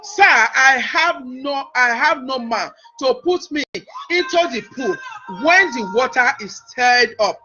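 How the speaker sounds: slow, measured Bible reading; scripture reading. Acted. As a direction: read the verses out deliberately, with long pauses. Reads scripture aloud to congregation.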